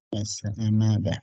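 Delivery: letters drawn out one by one; name each letter slowly while writing; slow letter dictation. Real, not acted. Teacher writing an acronym for students, slow letter dictation.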